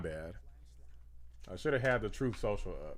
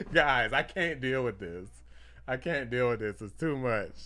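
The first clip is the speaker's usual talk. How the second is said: overwhelmed. Real, not acted. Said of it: "It's a happy overload".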